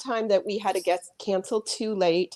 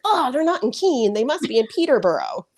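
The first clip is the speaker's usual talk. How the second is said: excited realization; 5 semitones higher than usual. Retold or imitated. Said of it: "And I'm like".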